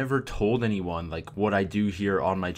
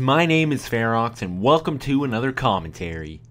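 overly enthusiastic; 3 semitones higher, 7 dB louder than usual. Acted. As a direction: ham up an overexcited commentator's greeting. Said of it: "overly enthusiastic about every video they put out".

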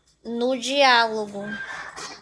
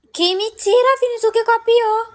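much higher, louder mock outrage at a viewer; outraged disbelief; 11 semitones higher, 4 dB louder than usual. Real, not acted. Accusing Vinícius of copying, high indignant outrage. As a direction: shriek it like you've been wronged.

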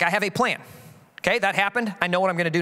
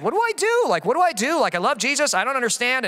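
mock confused plea; 4 semitones higher than usual. New Christian feeling the tension.

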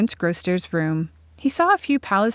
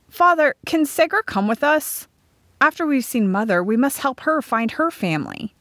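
put-on higher-pitched, earnest child voice; eager boy; 7 semitones higher than usual. A narrator's reading. Brill asks Father to take Segra along, earnest. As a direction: ask eagerly, high then settling.

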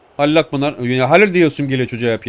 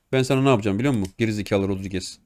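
muttered threat; 6 semitones lower, 6 dB quieter, faster than usual. Real, not acted.

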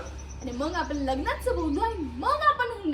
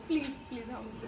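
lower, softer plea to keep it down; begging softly; 7 semitones lower, 6 dB quieter than usual. Acted. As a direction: hush him without making a scene. (हळू आवाजात विनवणी)

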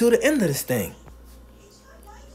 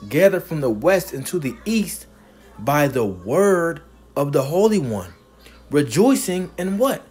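slow, emphatic preacher's reading; scripture reading. Real, not acted. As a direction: proclaim the verse, stretching key words. Preacher reads scripture aloud emphatically.

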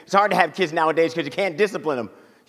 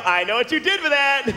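accusing; 7 semitones higher than usual. Retold or imitated. Accusing guy eating potato.

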